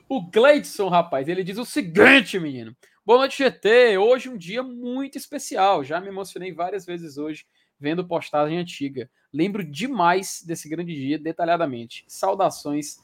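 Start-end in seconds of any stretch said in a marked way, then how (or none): 3.0-13.0 dramatic reading. Retold or imitated. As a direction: read it like a moving tribute. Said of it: "por que tu fez essa entonação aí". (leitura lenta e solene, com emoção)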